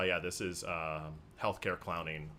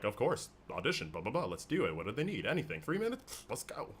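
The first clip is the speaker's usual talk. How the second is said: eager yes; 4 semitones higher than usual. Retold or imitated. Retold eager self-quote.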